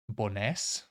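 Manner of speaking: "Bowness" with stress on the second syllable. Shown as a demonstration. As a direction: say "Bowness" leaning on "ness", rising at the end. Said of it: "stress is always on the second syllable".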